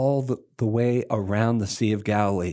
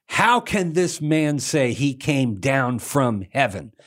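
indignant townsfolk; 7 semitones higher than usual. Retold or imitated. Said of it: "They say".

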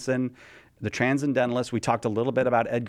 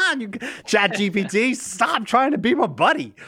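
higher, louder mock-annoyed protest; exasperated scolding; 9 semitones higher, 4 dB louder than usual. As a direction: push back on a clingy chatbot. Scolding the chatbot.

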